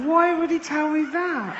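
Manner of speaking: high, laughing disbelief; baffled disbelief. Real, not acted. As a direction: throw the question up in amused shock. Comic incredulity.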